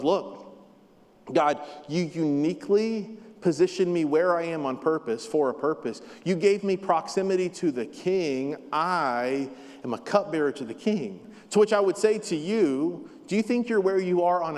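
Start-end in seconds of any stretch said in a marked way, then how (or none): 0.0-11.2 sincere, grateful. Shown as a demonstration. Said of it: "the way he was saying it was".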